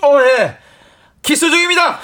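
loud, high-pitched formal announcement; cheeky mock-earnest shout; brazen boyfriend. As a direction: declare it boldly to an angry dad. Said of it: "당돌하게".

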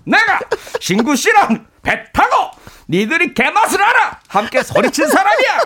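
rough, high-pitched tough-guy rant; gruff shouting actor. Acted. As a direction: bark it out like a gruff veteran actor. Gruff actor voice, Choi Min-sik parody.

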